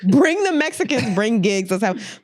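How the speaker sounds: drawn-out, high mock party call; mocking echo. Echoing co-host's joke about a party, mocking. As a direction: mimic his rallying cry, stretching the first words.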